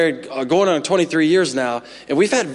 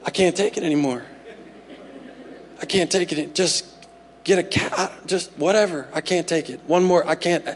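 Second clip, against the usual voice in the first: worn-down dad; 6 dB quieter than usual. Retold or imitated. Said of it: "that you're just like".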